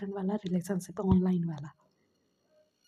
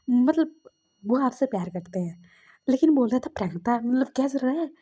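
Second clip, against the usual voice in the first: agitated retelling; 4 semitones higher, 7 dB louder than usual. Retold or imitated. Retelling the shocked boyfriend's reaction.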